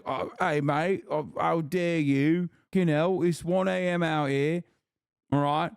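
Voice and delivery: high, indignant caricature of a British complainer; mock British accent. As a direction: put on an over-the-top British whine, rising in pitch. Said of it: "British people are like".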